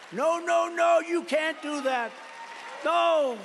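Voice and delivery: mock panicked protest. Macron protesting the wine tariff.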